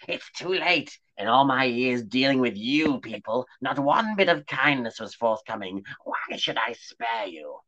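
bitter crone. Acted. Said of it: "she spat".

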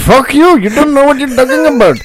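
put-on loud high Indian accent. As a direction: snap back in an Indian accent. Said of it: "Indian accent".

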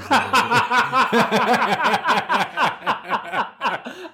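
squealing cackle up high; high howling laughter; high shrieking laugh. Real, not acted. Laughing fit.

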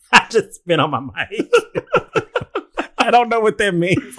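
helpless laughter through the words; real laughing fit, barely getting it out; laughing hard. Real, not acted. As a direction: crack up while confessing. Cracking up at the Spanish announcement.

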